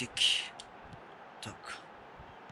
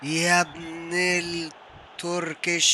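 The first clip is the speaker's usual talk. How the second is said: taunt; much slower than usual. Real, not acted. Taunting Turkish opponent.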